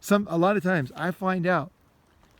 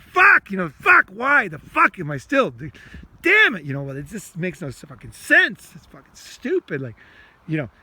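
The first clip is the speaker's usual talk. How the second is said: raw angry venting; 2 semitones higher, 6 dB louder than usual. Shown as a demonstration. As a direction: let it all out, swearing. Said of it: "You can talk like that to yourself".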